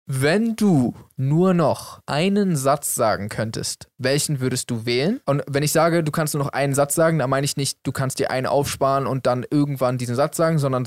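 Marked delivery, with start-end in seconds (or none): 0.0-5.2 slow, word-by-word quizmaster question; slow question reading. Shown as a demonstration. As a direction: pose the question slowly, each chunk separate. Reads out a random question.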